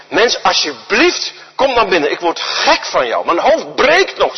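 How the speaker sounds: slow, fed-up plea to be left alone; exasperated judge. Acted. Judge giving in to the nagging widow, exasperated. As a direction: drag it out, worn down by her.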